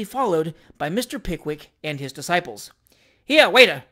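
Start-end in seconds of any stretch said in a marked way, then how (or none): 3.2-3.8 loud call for service; shouted summons. A narrator's reading. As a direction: shout for the waiter. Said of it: "shouted the stranger".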